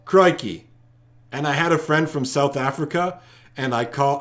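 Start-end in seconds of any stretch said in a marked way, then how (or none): 0.0-0.7 emphatic Aussie exclamation; Australian accent. Shown as a demonstration. Host retrying for a disapproving viewer, Australian accent. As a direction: have another punchy go at an Australian accent. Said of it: "I don't approve the accent".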